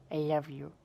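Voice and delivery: tender I love you. Real, not acted. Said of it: "see my speech impediment come out".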